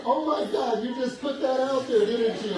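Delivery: high, loud, laughing disbelief. Retold or imitated. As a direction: crack up at a cheeky remark. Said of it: "She started laughing and she goes".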